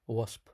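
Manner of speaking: whispered "wasp" with a lisp. Shown as a demonstration. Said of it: "I can't say wasps".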